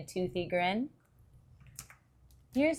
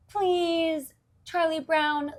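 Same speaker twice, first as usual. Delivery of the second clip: pleading; 8 semitones higher, slower than usual. Acted. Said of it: "Lucy pleaded".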